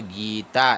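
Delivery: "गीता" with a long ee; long-vowel demonstration. Shown as a demonstration. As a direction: stretch the first vowel of "गीता". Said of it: "ऐसे पढ़ना है".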